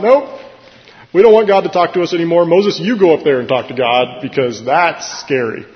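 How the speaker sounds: high, loud, fast frightened plea; panicked crowd. Retold or imitated. Israelites at Sinai begging Moses, high frightened cry. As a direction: beg Moses in panic to go instead. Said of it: "everybody freaks out".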